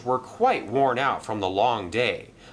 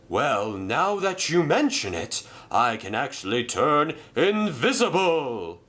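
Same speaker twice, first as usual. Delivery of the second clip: a bit higher, proud reveal; lightly voiced boastful engine; 5 semitones higher than usual. Merlin telling Arthur he can turn invisible, lightly higher. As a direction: confide a secret power.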